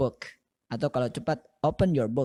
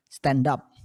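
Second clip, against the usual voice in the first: fast linked; 5 dB louder, slower than usual. Shown as a demonstration. Teacher demonstrates fast classroom command. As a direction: stand up run together as stendap. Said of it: "kalau ucapkan dengan cepat".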